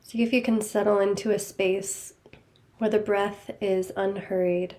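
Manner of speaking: calm, even guiding voice with long pauses; guided meditation. Real, not acted. Teacher leading listeners to notice body and breath, guided meditation. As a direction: guide them gently inward, leaving space after each phrase.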